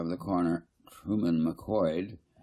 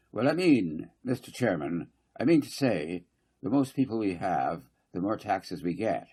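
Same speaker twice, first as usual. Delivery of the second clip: fussy councillor Garth. Acted. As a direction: press the point, repeating I mean to say.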